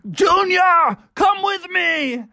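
loud, high call; urgent shout. A narrator's reading. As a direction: yank him away with your voice. Bubby calls brother away.

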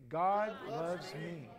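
slow, quiet and heartfelt; sincere. Shown as a demonstration. Pastor modeling the words for his congregation, slow sincere. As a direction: say it like you truly mean it. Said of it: "like he actually mean it".

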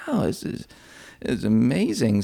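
put-on hushed, wide-eyed whisper of an eight-year-old; awed child whisper. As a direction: breathe it out in childlike wonder. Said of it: "it's like".

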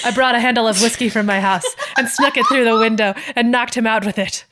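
proud, loud proclamation; proudly. Acted. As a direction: announce it proudly. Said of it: "Claire proclaimed proudly".

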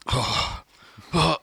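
breathy unvoiced groan; weak nauseous moan. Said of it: "And I go".

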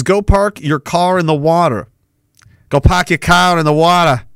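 put-on tries out a Boston accent. Streamer reading a chat line, in a mock Boston accent. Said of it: "with a Boston accent".

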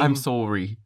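rounded Canadian "sorry"; Canadian accent. Retold or imitated. Mimicking Canadians saying weird things, Canadian accent. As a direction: imitate a Canadian apology. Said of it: "they say weird things".

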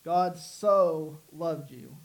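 very slow, a long held SO; "so" drawn way out for emphasis; stress on SO. Shown as a demonstration. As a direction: stretch "so" out, then pause before what follows. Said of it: "we talked about the word so".

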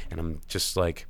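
worn-out, whispered, raw throat; tired whisper. Real, not acted. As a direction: fade into an exhausted whisper. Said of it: "I'm tired".

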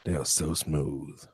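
slow, soft smooth puppet voice. Pretend. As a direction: croon it like a goofy puppet. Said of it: "You have a really good puppet voice".

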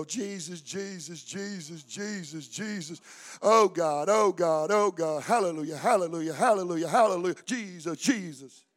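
soft, rote, mumbled mock prayer; mock chattering prayer. Preacher mocking empty prayer to the church, soft rote chant. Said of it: "That ain't praying. You're chattering".

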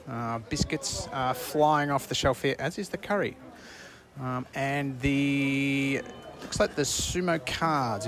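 a roving reporter's on-the-ground update; bright stadium report to the listeners; field reporter. Acted.

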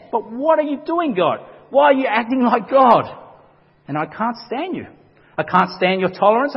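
a prophet shouting his frustration at a merciful God; angry Jonah. Retold or imitated. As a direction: voice Jonah's indignant protest to God. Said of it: "He's angry".

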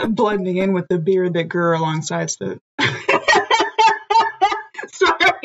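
laughing. Acted. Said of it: "I can't take myself seriously".

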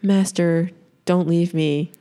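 imitating an unmoved goodbye; calm and collected. Imitating Jen at the dying master's side, calm and collected. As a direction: plead with no urgency at all. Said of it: "so calm and collected about it".

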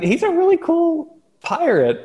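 put-on a try at Hondo's pirate accent; attempted Hondo accent. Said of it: "I can't even do it".

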